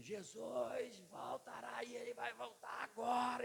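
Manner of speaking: intense whisper, slowed down. Retold or imitated. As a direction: whisper it like a secret warning. Pastor scares locked-in church. (sussurro intenso e lento)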